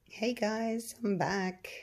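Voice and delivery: hoarse, croaky greeting. Real, not acted. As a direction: talk through a croaky throat. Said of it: "Still got my croaky voice".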